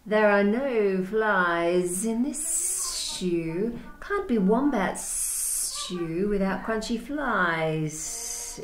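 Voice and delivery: very slow drawled lizard voice; lazy lizard. Acted. Blue Tongue lecturing Dingo about flies, very slow. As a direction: stretch every word like a sunning lizard.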